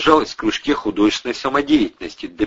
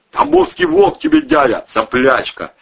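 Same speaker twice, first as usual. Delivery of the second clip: rough retort; 8 dB louder than usual. A narrator's reading. Thug snaps at scared girl.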